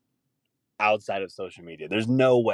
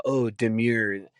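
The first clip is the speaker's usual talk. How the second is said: mocking fad-word user; much slower than usual. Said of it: "all the people were saying for a while".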